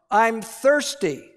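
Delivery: lightly voiced small girl, slow; a hint of a child's whine, drawn out; little girl voice. Daughter voiced again.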